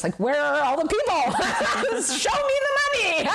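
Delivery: high, laughing plea with a grin in the voice. Retold or imitated. Retelling her plea to a friend, laughing high. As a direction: laugh through the plea for customers. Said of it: "I sort of said".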